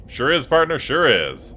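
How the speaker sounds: lightly voiced Western cowboy accent; drawled cowboy accent of an old-timer; cowboy accent, agreeing with his partner. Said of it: "Gabby doesn't talk like that".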